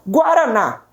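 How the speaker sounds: "Guaraná", last syllable stressed. Shown as a demonstration. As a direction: land firmly on the "ná" of Guaraná. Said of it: "Ela é proferida com mais força".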